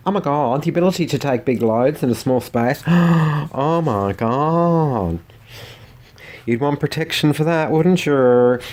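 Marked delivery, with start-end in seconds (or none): 0.1-2.8 mock shocked. 2.9-5.2 big gasp, then a slow Oh my God; hammed-up gasp.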